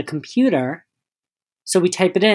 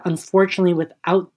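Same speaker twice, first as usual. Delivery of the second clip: mock-polite customer service, slightly lifted pitch; sarcastic politeness; 2 semitones higher than usual. Store worker refusing a customer's return, sarcastically polite. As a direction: lay on the courtesy with a sarcastic edge. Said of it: "I'm being very sarcastic now".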